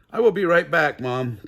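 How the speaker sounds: loud call to Mom; yelled. A narrator's reading. Kid yelling back to Mom in the next room. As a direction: shout it so Mom hears. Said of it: "I yelled".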